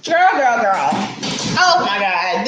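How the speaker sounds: excited repetition. Real, not acted. Reacting to shocking allegation.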